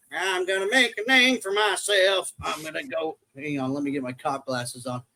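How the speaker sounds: lightly hammed-up self-important safety cop; mock safety guy. Safety officer out to make a name, mocking. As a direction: mimic an overeager safety officer. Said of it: "freaking safety guy's like".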